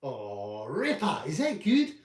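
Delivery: high, loud, hammed-up female voice; hammed-up patient asking the doctor, high and loud; mock patient voice. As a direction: squeal it like a pleased patient. Acted doctor skit, Ebony voice.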